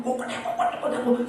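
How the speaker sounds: rhythmic chicken clucking, spelled out; imitating a chicken. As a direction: cluck like a fussing hen. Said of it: "닭은요".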